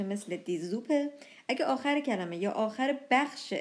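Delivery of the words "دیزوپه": دیزوپه with a voiced z after the article. Shown as a demonstration. Teacher giving a word-initial example, دیزوپه with z. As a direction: buzz the s as z in دیزوپه.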